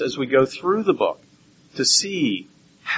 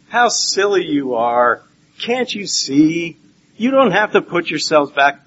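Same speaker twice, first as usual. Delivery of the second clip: mild chiding; 2 semitones higher, 3 dB louder than usual. Retold or imitated. Preacher mimicking others' reading of Paul, mildly chiding. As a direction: chide them lightly, stretching the words. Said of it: "make it seem like Paul is saying".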